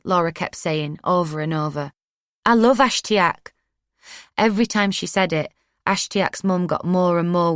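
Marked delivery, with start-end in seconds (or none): 2.4-3.5 pleading. A narrator's reading. Laura pleading with mum.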